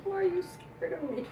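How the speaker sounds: high-pitched, softly acted-out question; retold startled question. Psychic recalls asking the frightened mother, high startled question. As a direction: reenact asking it high and light. Acts her own tearful, puzzled question.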